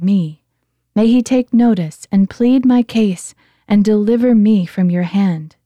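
David pleading. Acted.

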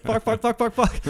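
high, comic panicked cursing; mock panic. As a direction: imitate a man bounced along on a runaway horse. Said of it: "hanging on for dear life".

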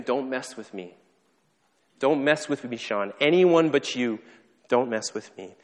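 mildly heated warning, building midway; understated angry push-back; retold anger. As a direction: warn them off with a touch of anger. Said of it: "from being confused to being angry".

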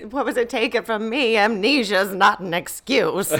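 campy comic scolding; Missus Garrett impression. Co-host as Missus Garrett scolding, campy impression. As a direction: scold through a laugh, drawing it out. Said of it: "Is that your Missus Garrett impression?".

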